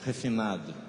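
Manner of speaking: Refinado said with lips nearly shut; talking with mouth closed. Shown as a demonstration. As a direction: say Refinado without opening the mouth. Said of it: "Sai, sai sem abrir a boca".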